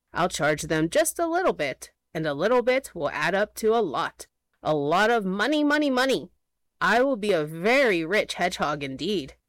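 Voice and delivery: greedy little villain voice; scheming hedgehog. Acted. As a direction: gloat over the money.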